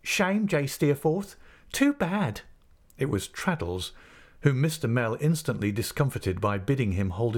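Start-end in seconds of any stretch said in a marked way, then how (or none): 0.0-2.4 high-pitched cry of reproach. A narrator's reading. Schoolboy cries out against the insolent pupil, high and reproachful. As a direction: call out in protest, pitched well up. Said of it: "Here somebody cried out".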